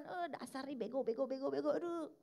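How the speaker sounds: a put-on voice scolding yourself as stupid; scolding oneself. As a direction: imitate someone berating themselves. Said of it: "ngomong ke diri sendiri sering sembarangan".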